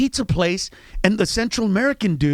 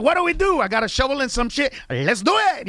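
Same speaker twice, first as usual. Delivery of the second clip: eager Salvadoran worker; 6 semitones higher than usual. Retold or imitated. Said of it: "the Salvadorans are like".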